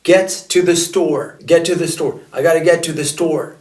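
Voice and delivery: American get to the store; American accent. Shown as a demonstration. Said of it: "Comme par exemple".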